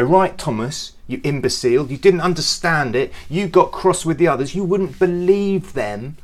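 mock angry telling-off of Thomas; impatient scolding. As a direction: tear into doubting Thomas. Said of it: "Jesus didn't go".

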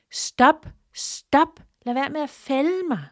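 high shouted plea to stop; tree calling out against the axe; cherry tree crying stop; pleading shout. A narrator's reading. Tree begs Miko not to chop.

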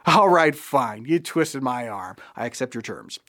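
feigned surrender, trailing down; mock reluctance. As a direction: pretend to give in grudgingly. Feigned giving in to welcome terms.

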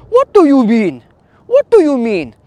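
high, loud West African accent impression; Auntie Aggie's West African accent. Retelling how Auntie Aggie always answers him, in a loud West African accent. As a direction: mimic her West African accent, punching the word what. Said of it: "Sorry if I butchered the accent there".

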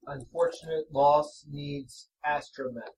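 slow flat monotone; deadpan robotic monotone. Acted. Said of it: "same flat monotone voice".

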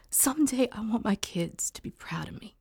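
hushed, breathy confession; whispered hope. Acted. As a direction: barely voice it, as a private wish. Mother's quiet hope for kids.

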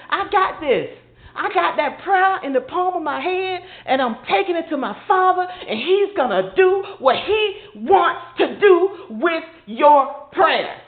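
a touch of tender reassurance, slowing; calm the worried believer; reassuring Jesus. Retold or imitated. Voicing Jesus comforting.

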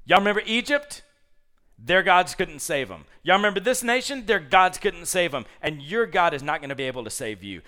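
loud high taunting shout; taunting yell. Retold or imitated. Assyrian envoy taunting the besieged city, loud jeering shout. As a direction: jeer at them from outside the walls. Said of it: "just starts screaming at the men".

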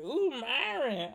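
a light mock of a smitten second grader; swooning girl. Comic imitating his crush cooing his name, slow and dreamy. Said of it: "she was like".

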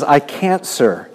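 a forceful cry of I can't; emphatic admission. Acted. Lame man's reply repeated.

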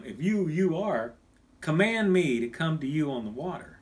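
"you" repeated and pressed, conditional; "if you, you are" leaning on "you"; stress on you. Shown as a demonstration. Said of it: "exactly opposite".

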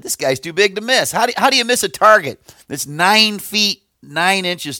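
high, eager underdog's retort; retold confident David. David sizing up Goliath, retold with high-pitched confidence. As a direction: pitch it up, incredulous at such an easy target. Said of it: "David took one look at him and said".

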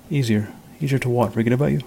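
voice cracking. Acted. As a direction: let the voice break on it. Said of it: "his voice cracking".

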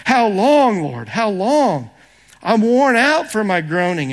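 a pleading psalm read with intensity; anguished plea. Acted. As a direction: cry out to God in distress. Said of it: "do you sense the intensity here".

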